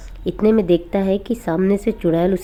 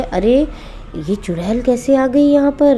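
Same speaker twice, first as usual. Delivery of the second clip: startled; 5 semitones higher than usual. Acted. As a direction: jump in alarm at what he sees. Father sees the witch.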